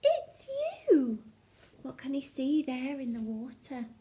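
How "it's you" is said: high then dropped, amused; laughing reply. A narrator's reading. Duckbills laughing at Drip, light amused reply. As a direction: tell him kindly, amused. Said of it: "they laughed and said".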